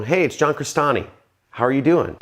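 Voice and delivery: sales-call greeting with pitch climbing; upward sloping tonality. Shown as a demonstration. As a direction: greet them like an eager salesperson. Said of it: "tonality is upward sloping".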